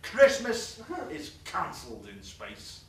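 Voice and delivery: slow menacing pronouncement; villain decree. Retold or imitated. King of the Universe telling the aliens, in a slow mock-menacing voice. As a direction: announce it slowly like a tyrant. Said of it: "terrible, blood-curdling voice".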